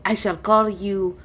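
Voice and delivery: lightly voiced dragon, pondering with long pauses; dragon, pleased. Dragon names the visitors, mildly pleased and deliberate. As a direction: bestow each name as a stately dragon.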